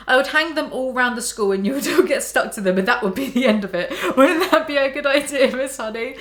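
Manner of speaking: kalimat terselip tawa; tertawa sambil membaca. Real, not acted. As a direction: bacakan sambil tertawa kecil. Laughs while reading.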